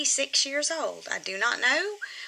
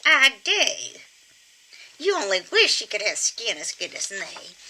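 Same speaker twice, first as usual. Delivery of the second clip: squeaky ventriloquist dummy. Pretend. Puppet boasts about her looks.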